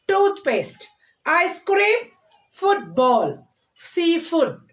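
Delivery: word list, each of Toothpaste, ice cream, football, seafood hit on its first syllable; measured list of Toothpaste, ice cream, football, seafood, front-stressed. Shown as a demonstration. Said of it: "stressing the first syllable nouns".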